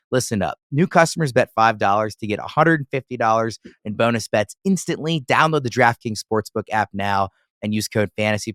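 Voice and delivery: upbeat sponsor read, a touch livelier. Acted. Podcast host reading the DraftKings ad to listeners, upbeat ad read. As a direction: sell the sportsbook promo like a radio spot.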